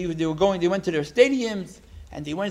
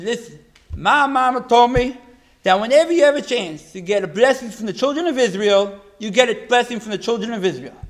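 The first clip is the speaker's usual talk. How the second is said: firm insistence; 4 semitones higher, 6 dB louder than usual. Retold or imitated. Lady explains mama's rule.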